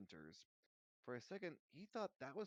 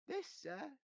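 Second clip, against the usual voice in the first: very high squeaky elf voice; a loyal servant confessing; Dobby owns up to Harry, squeaky and earnest; eager house elf; 5 dB louder than usual. Acted.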